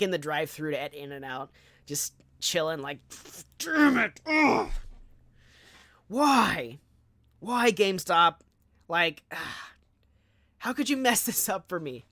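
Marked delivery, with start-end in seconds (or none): 3.6-12.0 high, loud mock anguish with a whiny cry; hammed-up despair over a cancelled pre-order; frustrated wail. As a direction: throw a theatrical tantrum at GameStop. Retold meltdown in the drive-thru.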